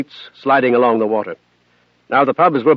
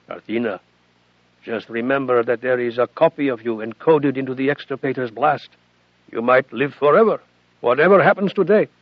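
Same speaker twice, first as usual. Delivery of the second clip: gentle; 4 dB quieter than usual. Acted. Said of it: "Mikhail said gently".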